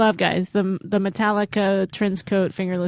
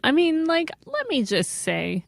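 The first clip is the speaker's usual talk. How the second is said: voice getting high. Real, not acted. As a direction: pitch creeping up as you try to make a point. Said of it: "my voice keeps getting high".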